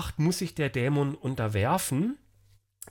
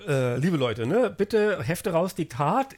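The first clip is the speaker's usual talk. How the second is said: strict teacher; 2 semitones higher than usual. Pretend. Mock classroom address to listeners.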